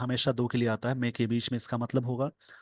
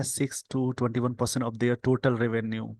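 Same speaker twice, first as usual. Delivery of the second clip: slow dictation; much slower than usual. Shown as a demonstration. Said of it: "slow dictation reading".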